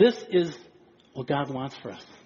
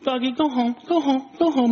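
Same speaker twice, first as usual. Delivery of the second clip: higher, lightly voiced lady shooing; mock shoo the dog home; 8 semitones higher than usual. Preacher voicing a London lady shooing her dog, light. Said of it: "And she goes".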